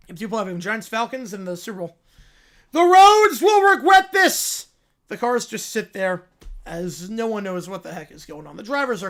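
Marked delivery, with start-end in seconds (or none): 2.7-4.7 high, loud, slow cartoon bear voice; a cub thrilled by the news; excited little bear. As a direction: squeal it like an overjoyed cub. Bear shouting.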